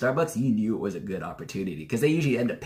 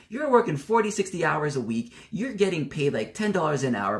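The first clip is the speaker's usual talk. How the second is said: re-enacted heated argument, pitched up; going at them; 4 semitones higher than usual. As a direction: argue back as if fired up. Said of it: "I'd actually just go at them".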